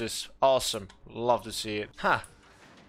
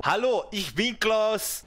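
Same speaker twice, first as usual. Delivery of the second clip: slow, mock German introduction; Klaus, German accent; slower than usual. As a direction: put on a German accent, unhurried. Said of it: "my impersonation of someone named Klaus who was German".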